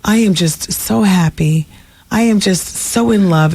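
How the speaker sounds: slow, sing-song fake cheer; mock forced happiness. Imitating the actress claiming joy while nodding no. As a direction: drawl the happy words like a forced smile. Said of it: "and she's nodding no".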